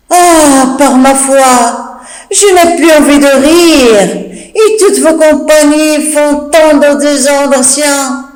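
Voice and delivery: slow words broken by giggles; laughing maid. Acted. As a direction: talk through the laughter. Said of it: "Nicole en train de rire".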